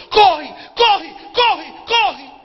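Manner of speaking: loud alarmed yell of corre, corre; shouting run. Retold or imitated. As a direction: shout it as a warning, running back. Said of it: "voltou correndo e gritando". (gritando corre, corre)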